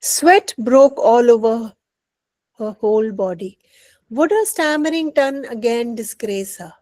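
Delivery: slow read-aloud, emphatic opening; measured classroom storytelling; story narration. A narrator's reading. Reads the story aloud in English.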